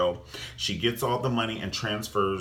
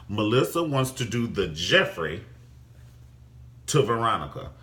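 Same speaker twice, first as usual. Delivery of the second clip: said slower. Shown as a demonstration. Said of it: "I'm gonna say that slower".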